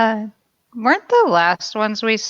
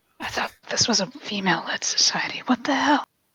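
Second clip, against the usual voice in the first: whispered mutter, barely audible, under the breath; 7 dB quieter than usual. In a roleplay scene, a character mutters very quietly under their breath. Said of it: "I very quietly under my breath".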